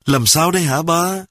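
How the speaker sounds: put-on high, quivering child's voice; a boy about to cry asking his dad; lightly voiced tearful child; whimpering question. A narrator's reading. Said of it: "Long mếu máo hỏi".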